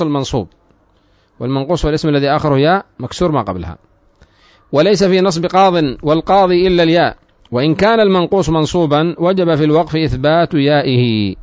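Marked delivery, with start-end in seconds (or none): 4.7-11.3 projected, fully vowelled reading voice; formal text reading. Real, not acted. Reads the book's text aloud. (قراءة متن بصوت جهوري)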